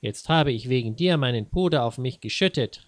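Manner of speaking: a touch of mock fury; mild annoyed wife cursing; angry cursing. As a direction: swear and scold, hammed-up. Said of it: "rief sie erbost".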